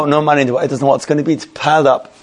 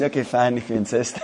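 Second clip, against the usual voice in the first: quiet, amused giving-in; little smile; 3 semitones lower, 8 dB quieter than usual. Retold or imitated. Customer graciously letting the other man pay, quiet and smiling. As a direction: softly concede with a hidden smile, chuckle at the end. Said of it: "with a little smile in his face".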